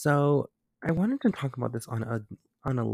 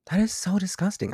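disgusted; 8 semitones higher, 4 dB louder than usual. Real, not acted. Spider in her room.

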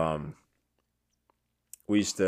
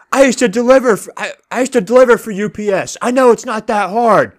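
high, loud mimicry of an angry woman; retold scornful yelling; 10 semitones higher, 6 dB louder than usual. Woman in a Jeep scolding a lost delivery driver, scornful yell. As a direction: holler it as a mocking re-enactment. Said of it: "You're yelling at me".

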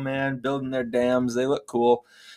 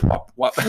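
tail slap noise. Pretend. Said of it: "slap their tails".

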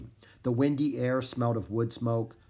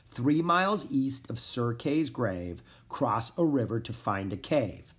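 slow, deliberate verse reading; measured recital of a riddle; reading rhyme aloud. A narrator's reading. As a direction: read out the clue line by line. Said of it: "She read aloud the third and fourth lines".

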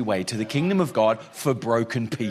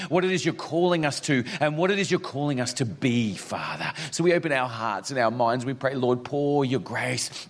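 prayer. Acted. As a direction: pray gently over the room. Pastor leads opening prayer.

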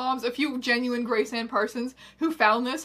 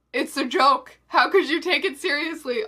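higher, louder, laughing mock exasperation; exasperated aside; 4 semitones higher, 6 dB louder than usual. Writer winking at the readers, exasperated laughing aside. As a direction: plead through a laugh. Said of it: "staring into the camera like she's on The Office".

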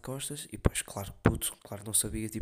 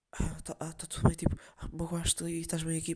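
put-on higher, sing-song fussing over a child; overdone coddling; 8 semitones higher, 3 dB louder than usual. Adult fussing over a hurt kid, higher and cooing. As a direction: coo at the kid like he's fragile.

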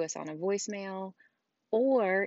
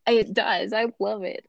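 excited; 4 semitones higher, 9 dB louder than usual. Real, not acted. Excited agreement about polish.

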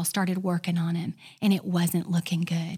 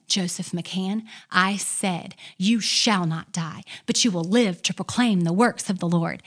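louder authoritative decree; 3 dB louder than usual. Retold or imitated. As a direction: repeat it with more force and authority. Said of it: "she said it again".

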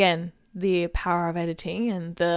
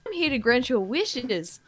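radio ad spokesperson; 3 semitones higher than usual. Acted. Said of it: "two people in conversation".

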